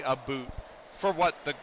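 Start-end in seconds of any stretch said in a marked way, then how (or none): 0.0-0.5 "a boot" with a long oo vowel; exaggerated Canadian "about". Shown as a demonstration. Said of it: "most Canadians do not say".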